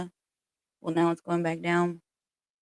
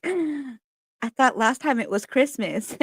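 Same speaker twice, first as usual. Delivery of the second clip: high, slow teasing deadpan; drawn-out puzzled retort; mock confusion; 7 semitones higher, slower than usual. Teasing nana about her changing holiday jokes, high and slow. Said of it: "I'd just be like".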